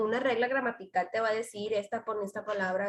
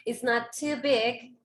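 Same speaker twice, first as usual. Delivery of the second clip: slow model read; slower than usual. Shown as a demonstration. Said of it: "Aquí estoy diciendo".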